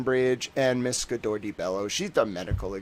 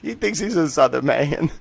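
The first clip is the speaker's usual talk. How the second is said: imagined Southerners; 3 semitones higher, 5 dB louder than usual. Retold or imitated. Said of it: "They'd be like".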